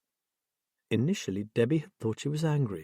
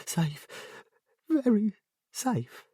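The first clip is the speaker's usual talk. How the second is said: much higher, slow, lilting sing-song; 10 semitones higher, much slower than usual. A narrator's reading. Jessie answering Debbie about Simon, eerie sing-song. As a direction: croon it eerily, like a child's rhyme. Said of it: "sing-song quality".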